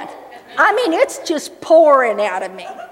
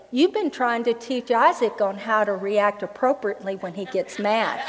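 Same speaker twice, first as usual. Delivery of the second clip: hushed, softer inner voice; quiet whispered-in-spirit tone; 6 semitones lower, 8 dB quieter than usual. Retold or imitated. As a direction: gently let the Spirit speak, hushed. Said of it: "the Holy Spirit whispers in my spirit".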